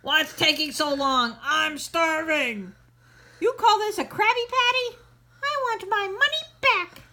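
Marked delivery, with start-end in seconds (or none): 3.4-7.0 angry customer. Acted.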